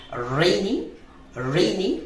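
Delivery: রেইনি said rei-ni with a clear diphthong; রেইনি, rising, careful; correct English pronunciation. Shown as a demonstration. Teacher models the word for students, careful রেইনি. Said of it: "প্রথম আরটি আমরা সঠিকভাবে pronounce করব".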